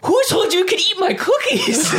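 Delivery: high, laughing mock yell at the cookie thief; hammed-up Arnold, breaking into laughter; mock Arnold outburst. Retelling Arnold on the phone to Phil Hartman, laughing mock yell. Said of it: "And Arnold's like".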